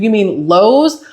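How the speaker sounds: heated incredulous question, climbing high in pitch; indignant customer challenging an absurd claim. Retold or imitated. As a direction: retell it in rising disbelief, drawing out "Lowe's". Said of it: "I was so heated".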